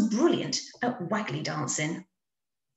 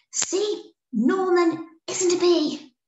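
high, loud I-told-you-so; triumphant; 11 semitones higher, 4 dB louder, slower than usual. A narrator's reading. Amelia showing the bees Norman's a bear, high and triumphant. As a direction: prove them all wrong.

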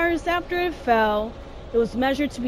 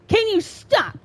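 "Can you stop?" pitched up into a whiny plea; higher pleading; 6 semitones higher than usual. Real, not acted. Gamer pleading with the game to stop, higher whine. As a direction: beg it to stop, voice rising.

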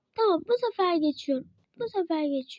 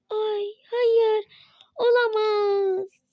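despairing wail; 3 semitones higher, 4 dB louder, much slower than usual. Real, not acted. Dying again in game.

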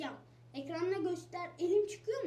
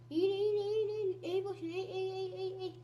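urgent calls; 3 semitones higher, 4 dB louder, much faster than usual. Real, not acted. Urgently telling character to duck.

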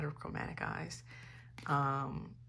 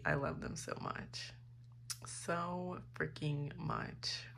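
soft gushing; 6 dB quieter, slower than usual. Real, not acted. Gushing about the group.

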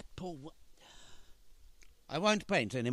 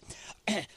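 mock throat-clearing cough; 8 semitones higher than usual. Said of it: "By letter".

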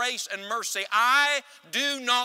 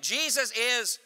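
rousing preacher's call to the congregation; say it like you mean it; 2 semitones higher, slower than usual. Shown as a demonstration. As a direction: demand the answer from the church with force. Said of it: "Say it like you mean it".

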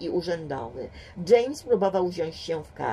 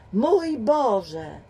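groaning; 4 semitones higher, 5 dB louder than usual. A narrator's reading. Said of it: "jęknął inspektor".

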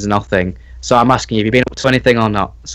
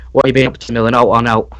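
northern English accent; faster than usual. Shown as a demonstration. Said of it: "if I was to say to you".

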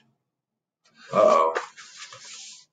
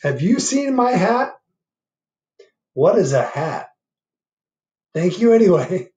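bear voice; 9 semitones higher, 9 dB louder than usual. Acted. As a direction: ask like a lost, patient bear. Bear and armadillo exchange.

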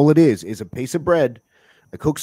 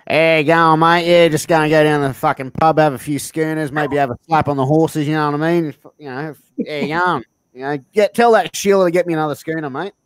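bogan; 3 semitones higher than usual. Acted. Host showing how an Aussie bogan would really talk, bogan voice. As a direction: put on a matey pub bogan. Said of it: "who would really talk like this".

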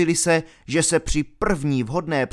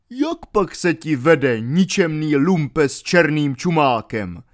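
mocking call; 3 semitones higher, 4 dB louder than usual. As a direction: jeer at the grave digger. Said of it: "zvolal posměšně mnich".

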